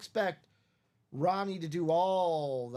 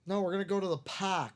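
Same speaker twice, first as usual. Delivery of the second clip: put-on Boston accent; 2 semitones higher, faster than usual. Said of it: "thick Boston accent".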